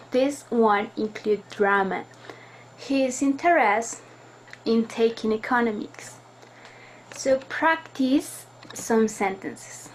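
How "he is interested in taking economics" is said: a pause after He is interested. Shown as a demonstration. Teacher demonstrating pauses for students, pause after interested. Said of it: "make pauses in sentences".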